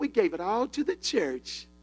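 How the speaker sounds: put-on southern accent with a drawl. Retelling what a woman said about giving everything away to a church, to an audience, in a southern accent. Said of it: "she had a southern accent".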